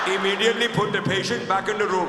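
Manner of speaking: low, quick, mock Indian guard voice. Guard ordering patient thieves, mock-official and low. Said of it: "And you're Indian. Indians are just very soft people".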